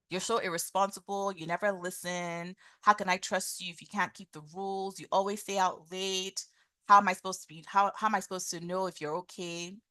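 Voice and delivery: mildly exasperated mock scolding; blaming tone. Shown as a demonstration. Parent to teenage son out late, acted blaming. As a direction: pile up accusations as reproachful questions. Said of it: "using the blaming tone".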